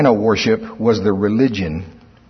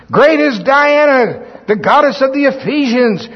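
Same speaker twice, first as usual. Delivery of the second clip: high, raised crowd chant; crying out; 12 semitones higher, 4 dB louder than usual. Acted. Preacher voicing Diana's worshippers in their zeal, crying out. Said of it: "For two hours they cried it out".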